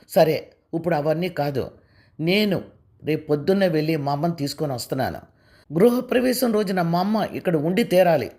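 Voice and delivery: firm, mildly angry insistence; stubborn, angry. Acted. Husband insists on bringing his mother, stubborn and mildly angry. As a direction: put his foot down. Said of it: "అన్నాడు పట్టుదలగా, కోపంగా".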